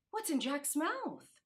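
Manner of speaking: bursting with curiosity; excited cry. Acted. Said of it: "the girl cried excitedly".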